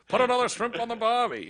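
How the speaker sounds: high, goofy dimwit voice; dumb guy voice. Retold or imitated. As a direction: spit it out like a total idiot. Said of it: "A total idiot like Lloyd Christmas would spit out".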